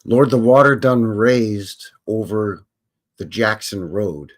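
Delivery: slow, drawn-out blues phrasing; slow imitation of the singer. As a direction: stretch each word like the record. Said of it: "So now we into Jackson".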